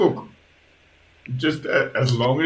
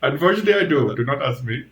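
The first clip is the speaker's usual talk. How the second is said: lightly voiced creature, louder and emphatic; Igor, protesting servant; 6 semitones higher, 7 dB louder than usual. Servant deflects questions about the bone creature, protesting. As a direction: push it out in a mildly indignant servant's voice.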